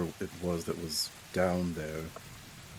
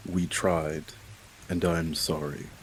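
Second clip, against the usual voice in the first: firm but remorseful. Acted. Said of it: "say it firmly, but with remorse in his voice".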